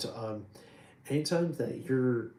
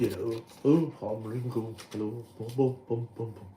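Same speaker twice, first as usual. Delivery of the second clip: impression of a famous drummer. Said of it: "a drummer who's more of a deeper voice".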